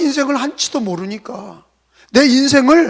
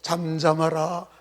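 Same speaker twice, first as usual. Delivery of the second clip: softer, slower polite "잠잠하라", mild and restrained; soft gentle hush; 6 semitones lower, 8 dB quieter, slower than usual. Shown as a demonstration. Mark's gentle written wording, quiet soft hush. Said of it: "이렇게 부드럽게 썼어".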